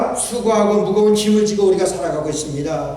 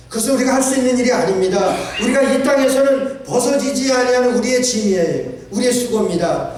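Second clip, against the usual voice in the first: preaching shout; 5 semitones higher than usual. Real, not acted. Preacher stresses burden of life.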